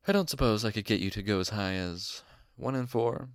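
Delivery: mildly pleading haggler's request; plaintive. A narrator's reading. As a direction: ask with a touch of a plea. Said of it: "how plaintive my voice sounded".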